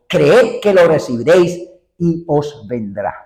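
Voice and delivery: slow, weighty Bible reading; solemn scripture reading. Acted. Preacher reads Jesus' words to the congregation, slow and solemn. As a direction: read every word slowly, as holy text.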